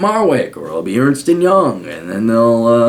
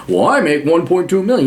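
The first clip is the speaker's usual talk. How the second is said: lightly mocked, puffed-up banker; mock bragging executive voice; boastful dude bro; 5 semitones higher than usual. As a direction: brag like an aging dude bro, a bit higher. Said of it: "some aged dude bro like this".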